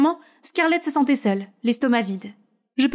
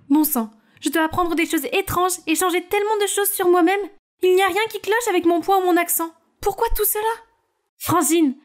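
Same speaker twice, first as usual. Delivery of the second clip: put-on higher, exasperated teen voice; complaining teen; 5 semitones higher than usual. Scarlett complains to her sister Naomi, higher and exasperated. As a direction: vent to your sister.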